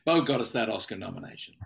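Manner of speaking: dry mock gratitude; deadpan fake praise for a colleague; sarcastic. Real, not acted. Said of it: "appropriately sarcastic".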